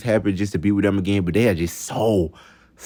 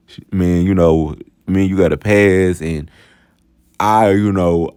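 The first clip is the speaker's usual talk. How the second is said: loosely imitating her ex's relaxed talk; Daquan's way of talking; 2 semitones lower than usual. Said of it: "let me tell y'all how he talked".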